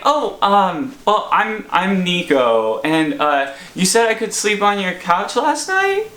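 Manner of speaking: lightly imitated drunken guy; hesitant, mildly tipsy mumbling explanation; sort of drunk. Intruder explaining he slept on the couch, sort of drunkenly. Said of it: "talking kind of, sort of drunkenly".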